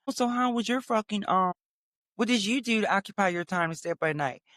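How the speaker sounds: a hint of the chatty lady; imitating chatty technician. Technician making small talk before the test, lightly mimicked. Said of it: "This bitch like".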